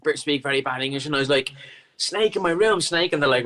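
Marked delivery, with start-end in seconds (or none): 2.0-3.1 panicked alarm. Retold or imitated. Panicked report of snake to staff.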